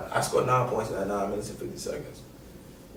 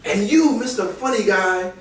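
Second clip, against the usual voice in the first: higher, louder mock scolding; coach scolding; 8 semitones higher, 4 dB louder than usual. Coach in locker room scolding Cash, louder mock rant. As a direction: call him out for his jokes. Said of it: "and he goes".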